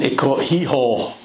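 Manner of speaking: slow broad Glasgow accent on hee-haw; hee-haw drawn out in broad Glasgow. Shown as a demonstration. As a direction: lean into the Glasgow accent, slowly. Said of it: "and in my Glasgow accent".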